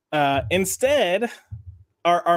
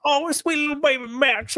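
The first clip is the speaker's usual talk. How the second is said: put-on baby talk; 9 semitones higher than usual.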